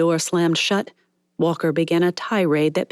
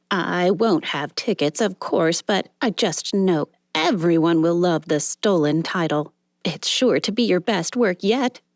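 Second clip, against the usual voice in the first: chatty secretary. Acted. Secretary gushing to the star on his way in, lightly voiced and eager. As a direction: gush about the premiere as the excited secretary. Miss Fisher voiced in reading.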